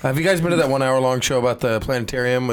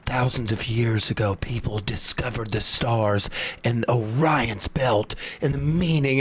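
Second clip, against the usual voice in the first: theatrical narrator; 2 semitones lower, 4 dB quieter than usual. Retold or imitated. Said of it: "really theatrical".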